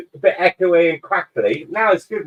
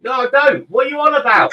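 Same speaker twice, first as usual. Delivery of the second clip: laughing denial; 8 semitones higher than usual. Real, not acted.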